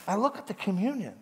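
ordinary delivery

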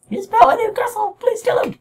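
very high, tiny cartoon puppet crying for help; squeaky Pinocchio voice. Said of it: "I don't even know what his voice is".

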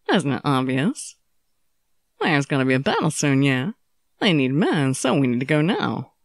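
low, tired male voice; a sick swordsman insisting on fighting; young swordsman voice. Acted. Okita's voice, weak but determined.

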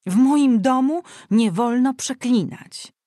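high, loud falsetto rebuke; falsetto scolding. Acted. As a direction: scold from up in the head voice, outraged. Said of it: "zawołała ciotka falsetem".

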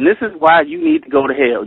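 lightly voiced devil accusing the sinner; prosecutor devil.

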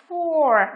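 "for" drawn out on the "or" vowel; model pronunciation. Shown as a demonstration. Teacher shows students how C sounds, modelling "for" with "or". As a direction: pronounce "for" as a careful model word. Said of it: "phát âm là".

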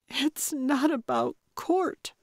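a high, sharp retort; quick high snap at the older woman; snapped. A narrator's reading. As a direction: snap back, stung and defensive. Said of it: "Anna snapped".

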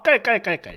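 acted cackling laugh; husband's teasing cackle; mocking cackle. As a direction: cackle to wind her up. Husband cackles at his wife.

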